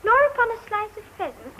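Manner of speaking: put-on careful child-like recitation; reading aloud. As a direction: recite the book passage on request. Child rereads passage on request.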